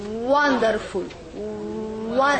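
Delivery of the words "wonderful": "wonderful" said slowly, lips rounded on the first syllable; slow, careful "wonderful"; slow model word. Shown as a demonstration. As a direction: stretch "wonderful" so they hear the Waw. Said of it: "as if you say".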